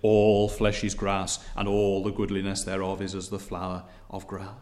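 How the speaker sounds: low, measured pronouncement; God speaking. Acted. God answering the human messenger, low solemn pronouncement. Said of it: "the original speaker is again heard to say".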